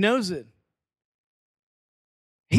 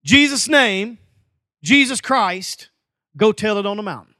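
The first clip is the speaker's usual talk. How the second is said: lightly imitated kid preacher, loud opening; a child's emphatic prayer, lightly mimicked; Pentecostal child praying; 5 dB louder than usual. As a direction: proclaim it like a tiny Pentecostal. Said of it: "she's Pentecostal".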